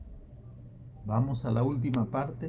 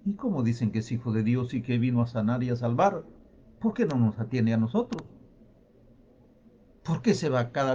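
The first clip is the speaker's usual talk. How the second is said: low-pitched grumbling questions; understated complaint, pitched down; murmured doubting; 3 semitones lower than usual. Acted. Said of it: "Hubiesen murmurado".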